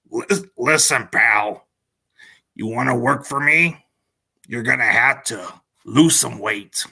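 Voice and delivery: lightly voiced wrestling boss, slow; a stern boss threatening to fire you; Vince McMahon. A hint of a wrestling boss scolding a worker. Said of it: "I can do a Vince McMahon's impersonation voice".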